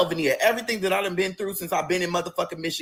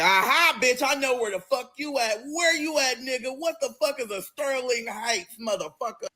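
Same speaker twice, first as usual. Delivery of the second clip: friend's voice; 7 semitones higher than usual. Retold or imitated.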